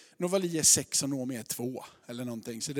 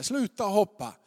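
raised, louder mock yell; retold shout; 4 semitones higher, 7 dB louder than usual. Family below yelling to the girl on the roof, mock shout. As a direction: imitate onlookers calling out a warning. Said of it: "de står och skriker där".

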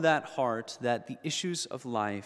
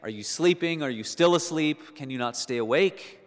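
warning rebuke; 3 semitones higher, 3 dB louder than usual. Retold or imitated. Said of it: "He warns them".

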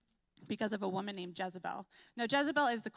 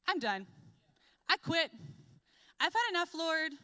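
higher, louder exasperated giving up; despairing outburst; 6 semitones higher, 4 dB louder than usual. Retold or imitated. Elijah telling God he has had enough, exasperated and loud. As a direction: throw up your hands and quit. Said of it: "And now he's like".

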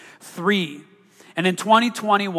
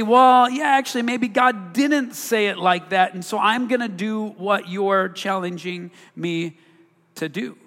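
voicing Adam and Eve yielding to the serpent, eager then fading; Adam and Eve giving in; 3 semitones higher than usual.

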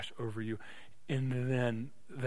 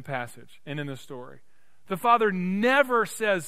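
raised preaching voice with punched key words; impassioned preaching; 6 semitones higher, 6 dB louder than usual. Real, not acted. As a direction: drive the story home to a congregation. Preaches the parable.

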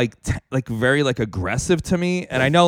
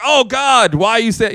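mock dismay; 5 semitones higher, 4 dB louder, slower than usual. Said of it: "She's like".

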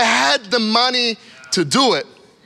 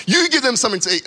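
frustrated; 3 semitones higher, much faster than usual. Acted. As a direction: hand it back with a touch of exasperation. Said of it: "God is, like, frustrated".

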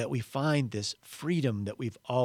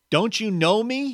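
high, loud call across to the ghost; shouted question; 10 semitones higher, 5 dB louder than usual. Acted. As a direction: shout it to get his attention. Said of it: "he shouted to the ghost".

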